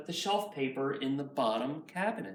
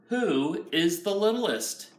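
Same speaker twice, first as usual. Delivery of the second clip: grand question; 4 semitones higher, 6 dB louder, slower than usual. Acted. Grandpa asks at Seder.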